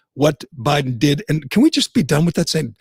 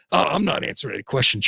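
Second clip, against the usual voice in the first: a quiet, quick mumble of a mock president; imitating the president; 5 dB quieter, faster than usual. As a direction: toss it off softly like a brushed-off reply. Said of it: "when he can't".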